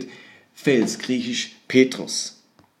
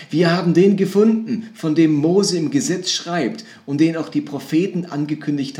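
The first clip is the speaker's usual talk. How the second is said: higher and louder, bursting with news; excited; 4 semitones higher, 4 dB louder than usual. Retold or imitated. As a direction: tell your friend you found him. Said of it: "mit gleicher Begeisterung erzählt". (begeistert, höher und lauter)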